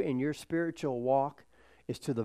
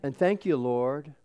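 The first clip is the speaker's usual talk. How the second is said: praying out loud; 3 semitones higher, 8 dB louder than usual. Real, not acted. Leading the congregation in thanks to the Lord, praying loudly. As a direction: pray it out loud, higher and louder, phrase by phrase. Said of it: "but say it out loud".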